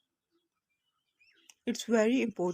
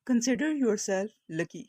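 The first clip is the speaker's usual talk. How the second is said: said slowly and clearly; slow it down so learners follow; slow model reading; slower than usual. Shown as a demonstration. Teacher to Urdu learners, slow clear model. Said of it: "اس طرح سے بولیں گے".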